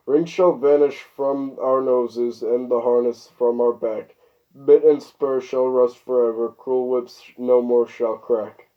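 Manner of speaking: spoken song lyrics, measured phrasing; verse read aloud. A narrator's reading. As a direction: recite rhymed verse line by line.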